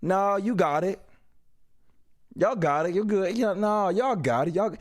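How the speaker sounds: low, mock-polite decline; polite refusal. Acted polite refusal to greeters.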